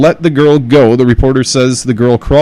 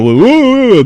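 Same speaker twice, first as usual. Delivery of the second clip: higher mock "woo"; drawn-out wobbly "woo" noise; imitated nervous whoop; 11 semitones higher than usual. Teller imitating a nervous attacker, mock whooping. Imitates the man losing his nerve.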